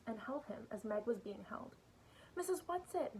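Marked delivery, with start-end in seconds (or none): 2.4-3.2 high, louder cry for help; despairing call. A narrator's reading. Meg, held fast, calls for rescue, despairingly. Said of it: "Meg called despairingly".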